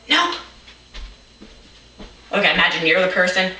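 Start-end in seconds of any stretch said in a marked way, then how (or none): 0.1-0.3 lightly voiced granny; short put-on granny reply; a hint of a granny voice. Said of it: "She goes".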